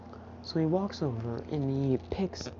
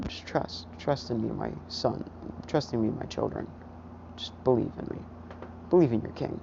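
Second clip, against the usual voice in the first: sinister whisper; 2 semitones lower, faster than usual. Acted. Hidden voice urging the listener to trust their king, hushed coaxing.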